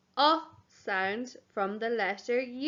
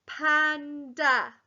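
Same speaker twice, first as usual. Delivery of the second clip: panda drawn out in two beats; slow sounding out; 2 semitones higher than usual. Shown as a demonstration. Teacher repeating panda nice and slow. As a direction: say panda slowly. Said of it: "Nice and slow again".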